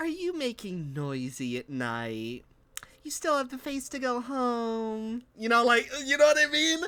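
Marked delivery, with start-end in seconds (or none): 0.0-5.2 put-on cooing, high baby talk with "home" drawn out. Describing a woman who does voices, partly imitating her voice. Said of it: "I'm not going to do her entire voice like this".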